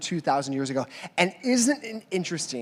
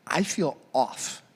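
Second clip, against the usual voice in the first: dazed; 3 semitones lower, 6 dB quieter, slower than usual. Retold or imitated. Retold feeling drugged.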